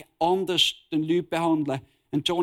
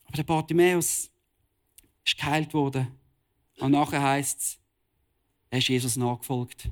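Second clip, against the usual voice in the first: gentle altar call. Real, not acted. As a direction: draw the listeners in tenderly to respond. Calm altar call after sermon. (sanfter Aufruf)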